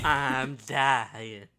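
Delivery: lightly imitating her line, dying pushed out; mimicking Ethel. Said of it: "She says it just like that".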